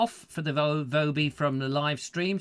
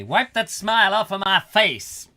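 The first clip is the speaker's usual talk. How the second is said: mock line; 6 semitones higher, 7 dB louder than usual. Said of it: "I was gonna say".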